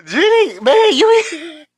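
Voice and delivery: high, loud words squeezed through laughter; cracking up at her; laughing hard. Real, not acted. Host cracks up at Jenny's joke, high and loud through laughter.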